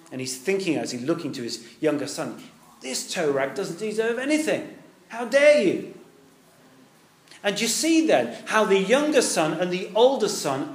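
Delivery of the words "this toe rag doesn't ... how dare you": contemptuous son. Retold or imitated. Older son thinking of brother.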